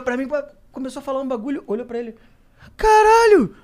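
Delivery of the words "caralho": high, loud fan-like outburst; excited recognition. Retold or imitated. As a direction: shout it in star-struck disbelief. Acts out excited man recognising friend.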